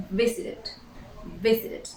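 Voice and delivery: "visited" ending in a very short "id"; "visited" with three syllables, last one brief; short vowel ending. Shown as a demonstration. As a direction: repeat "visited" carefully, pausing between takes. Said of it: "We add a very short".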